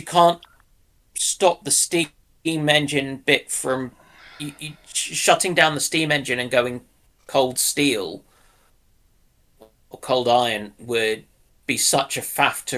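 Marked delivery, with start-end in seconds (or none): none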